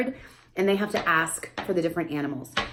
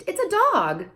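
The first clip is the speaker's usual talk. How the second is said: put-on labeling for child; slower than usual. Shown as a demonstration. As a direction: give the answer clearly. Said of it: "You say".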